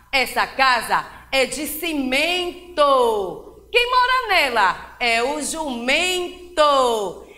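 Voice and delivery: steady, flowing read-through of the poem; just read it through at an even pace; teacher reading the text along with the class; plain reading aloud. Shown as a demonstration. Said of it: "E agora vamos à leitura".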